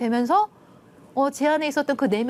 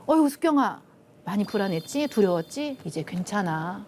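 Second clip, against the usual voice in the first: imagined comforting parent. Pretend. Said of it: "날 좀 이렇게 안아주기를 바랬어요".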